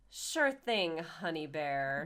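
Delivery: slow mock endearment; sarcastic sweet. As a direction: drawl the pet name sarcastically. Mary sarcastic to Joseph.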